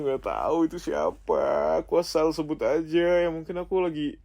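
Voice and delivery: high, hurried, whiny excuse; cornered and protesting; flustered denial. Acted. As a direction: blurt out an excuse defensively. Flustered excuse to jealous partner.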